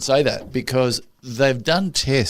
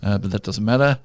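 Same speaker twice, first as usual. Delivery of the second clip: lower, reassuring doctor voice; pleasant bedside manner; 3 semitones lower than usual. Shown as a demonstration. Doctor putting a needle in, pleasant and reassuring. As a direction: gently talk a patient through it. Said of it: "with a very pleasant bedside manner".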